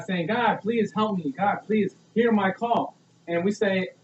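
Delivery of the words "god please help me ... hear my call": slow, earnest plea to God; begging. Acted. Someone fallen begging God for help, pleading. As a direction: plead slowly, drawing out the words. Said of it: "we're begging God".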